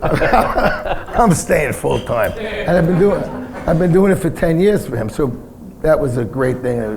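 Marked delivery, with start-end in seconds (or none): 0.0-2.3 laughing, drawn out. Retold or imitated. Retold own decision, laughing.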